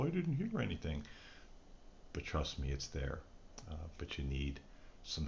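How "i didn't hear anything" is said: high, quick imitation of a disappointed listener; puzzled viewer voice. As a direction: play the let-down viewer, pitched up and fast. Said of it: "or you'll sit there and go".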